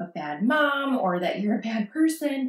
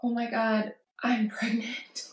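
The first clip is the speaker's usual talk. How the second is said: soft, tearful whisper with a broken laugh; half-sob it, barely voiced; crying; 4 dB quieter than usual. Calling her sister in tears, whispered crying news. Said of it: "And I've cried her with, like".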